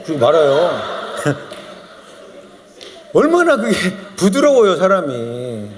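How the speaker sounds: usual speaking voice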